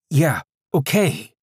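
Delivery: high, slow, whiny yeah okay. Acted. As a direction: whine it out, drawn and high. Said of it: "he said again".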